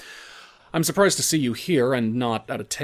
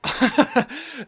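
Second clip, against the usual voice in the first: a sharp, high, scornful laugh; high mocking laugh; 13 semitones higher than usual. Sam laughing at Peg's threat, high scornful laugh. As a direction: laugh off her threat with contempt.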